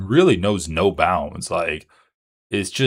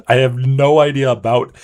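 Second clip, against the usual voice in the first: louder, heated rant; 2 semitones higher, 6 dB louder than usual. Real, not acted. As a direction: push it out loud. Ranting defense.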